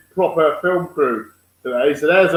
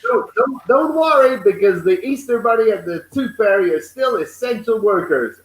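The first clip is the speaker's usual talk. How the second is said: imitating New Zealand accent; 3 semitones higher than usual. Cohost retelling the prime minister's Easter message in a mock New Zealand accent. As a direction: mimic the Kiwi prime minister reassuring kids, lightly. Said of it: "New Zealand Prime Minister was like".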